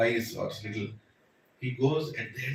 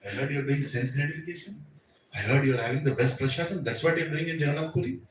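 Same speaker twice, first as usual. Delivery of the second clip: teasing. Retold or imitated. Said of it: "See how Krishna teases".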